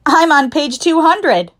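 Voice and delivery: high, loud, drawn-out boast; loud, high-pitched bragging shout. A narrator's reading. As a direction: shout it slowly at a classmate. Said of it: "Joy shouted".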